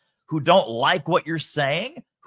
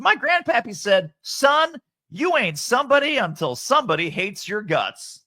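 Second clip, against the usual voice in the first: put-on half-serious New Orleans accent, pitched up; attempted New Orleans accent; 9 semitones higher than usual. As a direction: imitate a New Orleans client quoting his grandpappy. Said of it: "imagine this in a New Orleans accent".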